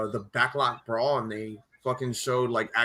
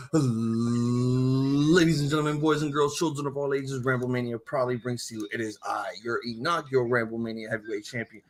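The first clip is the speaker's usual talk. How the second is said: ringmaster. Acted. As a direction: announce it like a ringmaster. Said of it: "it goes a little something like this".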